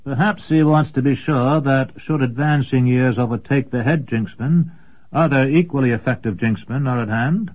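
hint at the succession slyly; sly wizard. Acted. Commendore replies slyly.

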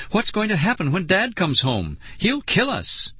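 high, fretful voice; dreading kid in big trouble; panicked. A narrator's reading. Panicked about dad coming home.

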